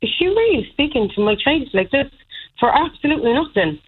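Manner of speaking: retold disbelief. Mother recalling how the woman spoke to her child, disbelief. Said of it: "looked in awe as if to be like".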